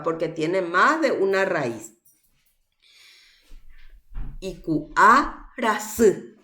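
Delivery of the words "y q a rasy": slow "Y Q A rasy", split into roots and ending on stressed Y; teacher's deliberate demo of "Y Q A rasy"; stress on final vowel. Shown as a demonstration. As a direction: pause before "rasy" and weight its last vowel. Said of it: "¿Dónde".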